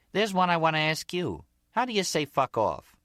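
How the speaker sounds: high, lively female character voice; Gloria, curious. Acted. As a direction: ask eagerly, pitched well up. Voices Gloria asking the Zip.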